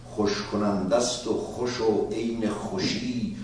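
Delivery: quick rhythmic Persian verse recital; brisk rhythmic reading of Persian poetry; musical Persian recitation. Shown as a demonstration. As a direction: chant the Persian lines for their music. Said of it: "That's the musicality".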